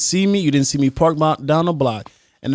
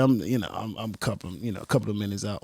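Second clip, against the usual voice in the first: hushed, evasive phone lie; quiet lying; 5 semitones lower, 11 dB quieter, faster than usual. Retold or imitated. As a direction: mumble the excuse softly.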